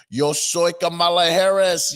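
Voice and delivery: slow, mock Latino accent; mock Spanish accent. Commentator mocking Kamala's put-on Spanish accent. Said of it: "her accent would subtly change".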